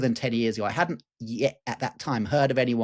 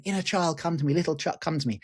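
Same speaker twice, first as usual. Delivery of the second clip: high sing-song call into the dark; a half-sung retold summons; 5 semitones higher than usual. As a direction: summon him like calling a child home. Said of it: "I called again".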